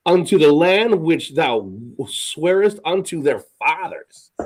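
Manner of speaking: slow, pointed scripture reading as incredulous questions; Moses being sarcastic. Shown as a demonstration. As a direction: read the verse like a sarcastic complaint to God. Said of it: "he's basically saying in a sarcastic way".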